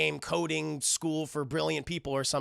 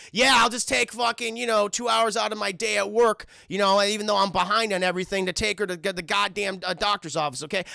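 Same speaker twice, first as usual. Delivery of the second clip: louder, raised-pitch mock exasperation; arguing parent; 4 semitones higher, 4 dB louder than usual. Dad griping at mom about the doctor, mock arguing. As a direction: rant it like a fed-up dad. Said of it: "They were arguing with each other".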